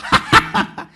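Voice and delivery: a loud, high, breathy burst of laughter; big demonstration laugh; full-body laugh. Shown as a demonstration. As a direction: laugh with your whole body. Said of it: "피식 웃는 게 아니라".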